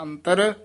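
ਅੰਤਰ, then a long pause; pause after word. Shown as a demonstration. Teacher marking the pause: ਅੰਤਰ, then silence. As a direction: let ਅੰਤਰ stand alone before going on. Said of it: "ਇਹ ਅੰਤਰ ਪਦ ਤੇ ਵਿਸਰਾਮ ਲਾ ਦੇਣਾ".

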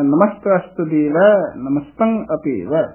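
ਨਮਸਤਸ ਦੇਵੈ said carefully, keeping both s sounds; careful model reading. Shown as a demonstration. Teacher has reciters say ਨਮਸਤਸ ਦੇਵੈ attentively, careful model. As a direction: give ਅਭੇਵੈ its full final ai. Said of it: "ਧਿਆਨ ਨਾਲ ਇਸੇ ਤਰ੍ਹਾਂ ਹੀ ਬੋਲਣਾ".

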